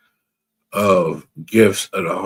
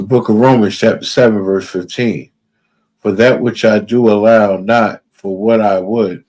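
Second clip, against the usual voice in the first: loud scripture reading; 5 dB louder than usual. Real, not acted. Preacher reading Romans aloud.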